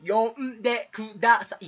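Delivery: over-enunciated primary school teacher, syllable by syllable; language teacher diction. Acted. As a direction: sound it out for young pupils. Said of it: "なんか国語の先生の発音かな". (低学年に教える国語の先生の発音で)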